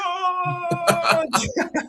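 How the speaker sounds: high burst of laughter; a delighted high laugh. Real, not acted. Laughing at a viewer's joke, high and bright.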